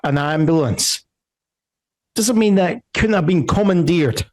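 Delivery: balcony guard. Acted. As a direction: argue the point from the balcony. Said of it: "he's saying".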